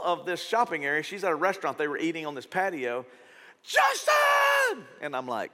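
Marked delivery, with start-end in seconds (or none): 3.6-4.9 high, loud shout across a crowd; surprised shout of a stranger's name; calling out. Retold or imitated. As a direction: call his name from across the patio. Woman calls out across patio.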